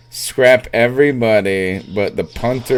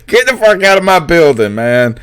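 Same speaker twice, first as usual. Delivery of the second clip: higher, louder, fast laughing rant; retold rant; 6 semitones higher, 4 dB louder than usual. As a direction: egg the owner on to yell him out the door. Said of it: "he said".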